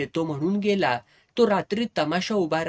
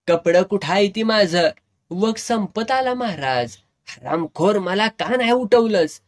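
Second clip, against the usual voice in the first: put-on angry drunken yell; 4 semitones higher, 4 dB louder than usual. Drunk actor berating the manager.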